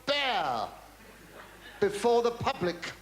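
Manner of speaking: pompous high voice; quoting the TV boss. Retold or imitated. Mimicking the TV boss lecturing him about the public. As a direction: lay it on like a smug producer. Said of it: "He said".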